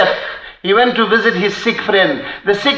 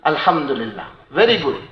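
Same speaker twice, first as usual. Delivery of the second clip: cheerful deaf reply; 7 semitones lower, 6 dB quieter than usual. Retold or imitated. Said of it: "He says".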